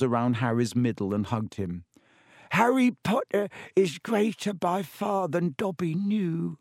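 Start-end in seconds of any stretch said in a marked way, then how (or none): 2.5-6.6 sobbing. A narrator's reading. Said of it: "he sobbed".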